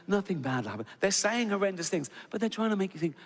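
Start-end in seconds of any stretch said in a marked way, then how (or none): 0.1-0.9 mock-calm announcement voice; calming hypnotic voice. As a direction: lull them like a flight attendant. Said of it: "that calming, hypnotic voice".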